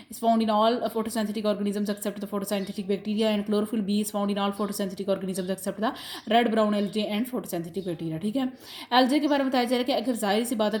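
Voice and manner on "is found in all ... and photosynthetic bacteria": reads the definition word by word, slowly; slow, deliberate reading of the textbook sentence. Shown as a demonstration. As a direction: dictate it slowly for notes. Reads textbook line aloud.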